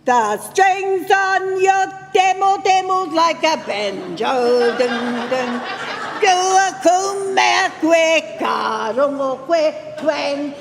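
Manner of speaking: high, slow singsong mockery; mocking playground singsong; kids teasing. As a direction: tease like naughty kids with a twang. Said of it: "they'd come like this to me and go".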